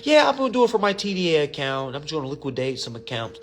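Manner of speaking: lightly voiced know-it-all; mocking a client. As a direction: parody the overconfident plan. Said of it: "Like, what? Who?".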